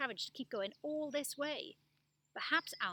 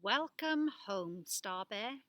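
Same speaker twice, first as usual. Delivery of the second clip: tender welcome; 4 dB louder, much slower than usual. Acted. Tender ending line.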